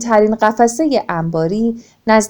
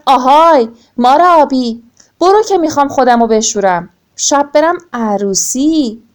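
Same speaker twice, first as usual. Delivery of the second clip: calling out; 3 semitones higher than usual. Acted. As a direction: shout it down the well at the snake. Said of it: "داد زد". (فریاد بلند به مار آبی)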